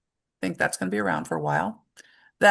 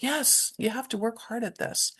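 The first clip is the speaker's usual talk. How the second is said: gentle reassurance; 4 semitones higher, 7 dB quieter than usual. Shown as a demonstration.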